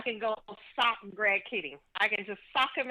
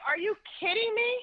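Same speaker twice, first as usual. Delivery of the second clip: high, disbelieving cry of outrage; incredulous disbelief; 11 semitones higher than usual. Retold or imitated. Woman recounting the film to the host, incredulous. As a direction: voice jumps way up in mock shock. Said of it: "I'm like".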